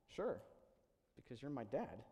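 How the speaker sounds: mildly acted calm reply; remarkable calmness. Young son answering his winded dad, understated calm. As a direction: answer Dad calmly, as if it's obvious. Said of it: "responded with remarkable calmness".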